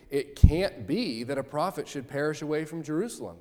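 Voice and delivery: lightly sad, half-ironic lament; a touch of sorrow with a wry edge; sad, tongue-in-cheek. Retold or imitated. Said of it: "And he says that very sadly".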